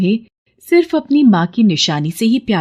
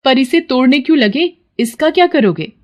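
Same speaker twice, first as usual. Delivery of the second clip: higher puzzled questioning; puzzled wife; 6 semitones higher than usual. Acted. Sarla questions Vikram, puzzled. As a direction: wonder what he's doing. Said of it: "Vikram सरला से कहता है".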